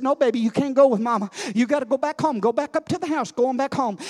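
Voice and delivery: lightly voiced lady, coaxing her little dog; a hint of a sweet old lady shooing her pet; coaxing the puppy. Old lady to her puppy, gently coaxing. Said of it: "she turned around and said".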